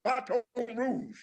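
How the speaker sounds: lightly voiced comedian's goodbye; George Wallace sign-off. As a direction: sign off like a showman. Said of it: "George Wallace saying".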